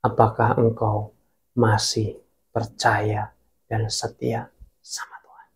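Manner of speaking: soft fatherly question trailing off to a whisper; gentle fatherly voice. Retold or imitated. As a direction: speak as a caring father to a grieving child, dropping to a hush. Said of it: "ngomong bahwa, gini".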